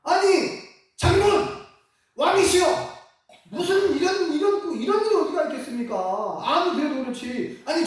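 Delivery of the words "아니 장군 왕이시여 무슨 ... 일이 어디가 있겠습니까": pretend protest. Choir member protesting to the king, mock outrage. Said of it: "막 항변했을 것 같아".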